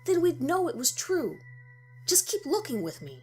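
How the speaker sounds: excited. Acted. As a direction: burst out with eager conviction. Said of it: "Steve was still excited".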